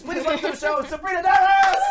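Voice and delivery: building to a high, loud shout of the name; rousing stage introduction. Real, not acted. Host brings on the next comedian, building loud introduction. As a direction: announce it big for the crowd.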